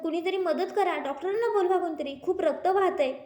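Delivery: urgent call for help. Acted. Calling for help, child bleeding.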